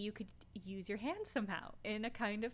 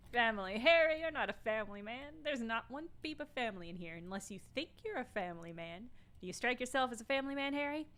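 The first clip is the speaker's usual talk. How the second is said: 1 Everett impression. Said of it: "I'm not doing a good Everett impression".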